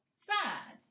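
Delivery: high, loud single-word call; big voice. Shown as a demonstration. Teacher demonstrating the word's second half, big voice. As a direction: pop it out in a big voice. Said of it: "use our big voice and say".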